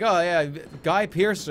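hammed-up slow reveal of Guy Pearce; mock announcing. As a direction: drag out the name like a big reveal. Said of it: "I say, like".

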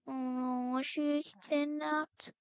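drawn-out, play-acted worry; slow, dramatic fretting; acted dismay. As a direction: stretch it out in mock dread. Fears sister was kidnapped.

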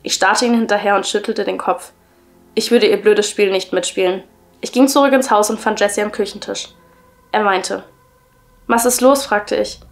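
measured, even story-reading voice; story narration. A narrator's reading. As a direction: read the creepy tale aloud, clearly and evenly. Reads a creepy story aloud.

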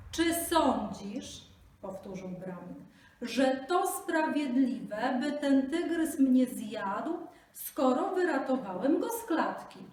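slow, high, loud repeated plea; speaking slowly. Acted. Brahmin repeats his plea to the jackal, very slowly. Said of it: "mówcie powoli".

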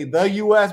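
"The" punched before "U S"; clearly marked "The" in "The U S"; stress on THE. Shown as a demonstration. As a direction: lean firmly on "The" ahead of "U S". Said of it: "we usually say".

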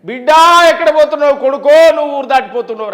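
half-acted tearful send-off; mock parental wailing. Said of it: "తల్లిదండ్రులు ఇక్కడనే ఏడుస్తారు".

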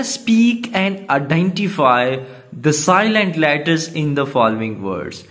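unhurried textbook read; slow reading. Acted. Teacher reading the definition to pupils, slow. Reads instruction slowly.

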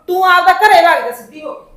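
loud, forceful dismissal; angry order. Acted. Aunt tells the visiting mother to go home, angry and loud. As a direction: order her out, raising your voice.

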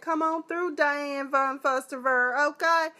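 high runway hype; hype cheer. Real, not acted. Praising Aunt Vi's wrap dress, high and cheering. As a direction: cheer her strut on.

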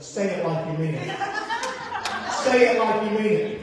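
insist, harder the second time; scolding parent. Retold or imitated. Parent correcting a half-hearted apology, insistent. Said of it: "the words that we've heard every parent say".

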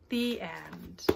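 ordinary delivery

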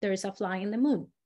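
fast murmured prayer. Shown as a demonstration. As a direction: rattle it off like a rosary. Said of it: "like a prayer".

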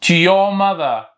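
very slow, stretched phrase; slow model reading. Shown as a demonstration. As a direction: drag the sentence out for repetition. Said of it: "خلينا نعيدها مرة ثانية".

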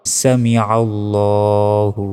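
"সামিআল্লাহু" with long rounded "ল্লা"; stretched laam. Shown as a demonstration. Teacher showing the stretch, slow drawn-out recitation. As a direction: hold the "ল্লা" about a second. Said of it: "লতে এক second টানবেন".

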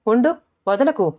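a mild, small yell of protest; small cry. A narrator's reading. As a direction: cry out lightly, pitch lifted. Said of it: "చిన్నగా అరిచింది".

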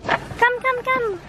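eager calling. Real, not acted. Calling Michael to the car.

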